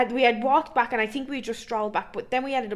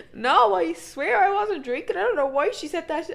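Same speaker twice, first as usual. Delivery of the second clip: put-on pleading teen; 7 semitones higher than usual. Teen swearing to her uncle she wasn't drinking, whiny high plea. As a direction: beg like a caught kid.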